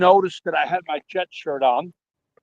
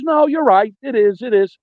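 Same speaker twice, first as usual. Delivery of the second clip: higher mock woman's voice; lightly voiced lady agreeing, pitched up; a hint of a woman's voice, raised pitch; imitating the woman; 5 semitones higher than usual. Caller voicing the woman agreeing.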